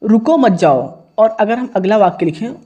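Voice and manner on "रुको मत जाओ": रुको set apart, then मत जाओ as one falling phrase; pause after रुको. Shown as a demonstration. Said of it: "अल्प विराम लगा दिया".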